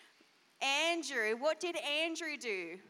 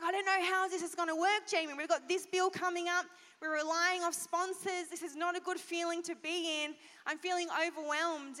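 imitating panicked husband; 3 semitones higher than usual. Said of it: "he'd freak out".

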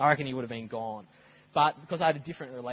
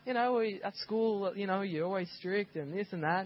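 put-on a touch higher boy's voice; lightly voiced kid; 5 semitones higher than usual. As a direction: explain like a hesitant child. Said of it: "I was like".

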